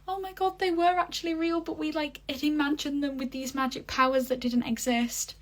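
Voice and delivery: high squealing disbelief; excited freak-out. Retold or imitated. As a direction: gush it out like shocked kids. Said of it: "children start freaking out".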